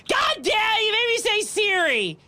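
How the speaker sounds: startled outburst. Real, not acted. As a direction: cry out in real disbelief. Phone assistant triggered by accident.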